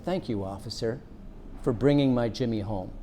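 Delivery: a soft, gentle thank-you; gentle, welcoming. Retold or imitated. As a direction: thank him kindly, like welcoming a guest. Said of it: "in a very gentle and welcoming voice".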